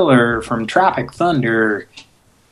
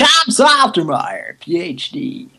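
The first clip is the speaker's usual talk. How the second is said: pompous put-on caller voice, higher at the start; Tom Saltermeyer voice; 3 semitones higher than usual. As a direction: announce the name grandly. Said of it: "do you do Tom Saltermeyer again".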